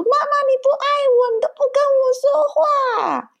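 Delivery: put-on very high, fast whiny child's plea; crying child. Mother mimics her son complaining she ignores him, high and fast. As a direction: squeak it out fast like a sobbing kid.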